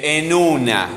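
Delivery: "una" drawn out on its first syllable; stress on UNA. Shown as a demonstration. Teacher sounding out words for the strong syllable, stress on UNA. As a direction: lean on the U of "una". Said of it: "la sílaba que suena más fuerte".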